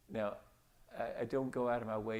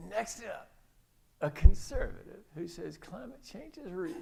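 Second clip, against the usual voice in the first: high, loud mock radio announcement; talk radio host; 9 semitones higher, 11 dB louder than usual. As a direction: tease the next segment with loud, high-pitched disbelief. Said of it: "Talk radio host says".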